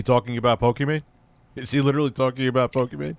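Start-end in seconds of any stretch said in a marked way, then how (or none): 1.5-3.2 fast, disbelieving repeat with weight on he; incredulous. Real, not acted. Streamer reacting to the guest's tangent, incredulous. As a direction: say it again, now you can't believe it.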